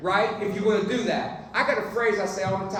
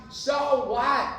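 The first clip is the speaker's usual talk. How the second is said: emphatic so what; 5 semitones higher, 3 dB louder than usual. Shown as a demonstration. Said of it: "I say "so what" all the time".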